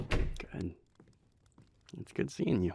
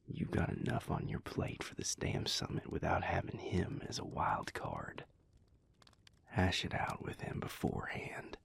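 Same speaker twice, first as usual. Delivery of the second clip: soft unvoiced whisper, confiding; 3 dB quieter than usual. Speaker confides about Porter in a whisper. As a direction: breathe the words out, close and private.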